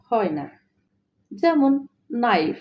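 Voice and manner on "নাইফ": নাইফ starting straight on the N; silent K. Shown as a demonstration. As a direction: say নাইফ as "naif", no K. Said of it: "তাই কে এর উচ্চারণ হয়নি".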